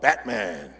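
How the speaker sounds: low, growling "Batman". Retold or imitated. Batman introducing himself to Bane, low growl. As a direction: say your name like the Dark Knight. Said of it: "he shows up like".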